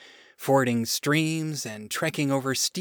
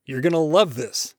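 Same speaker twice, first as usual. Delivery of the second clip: lightly voiced proud God, louder; proud enthusiasm; 6 dB louder than usual. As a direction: show it off with relish. God proudly shows the garden.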